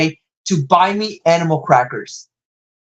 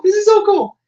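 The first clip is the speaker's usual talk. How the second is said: higher, happy fake sob; overjoyed mock weeping; mock crying; 13 semitones higher than usual. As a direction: cry with joy, hammed up. Squeal turning to fake cry.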